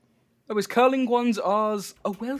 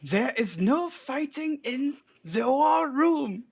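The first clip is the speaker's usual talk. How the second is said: slow, higher, grand movie voice; film character voice; 6 semitones higher, slower than usual. Retold or imitated. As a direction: deliver it like a stern general. Repeating the famous film line.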